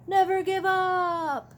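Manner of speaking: high, slow rallying shout; rally the tired brothers; rallying cry. Acted. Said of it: "sounded his siren".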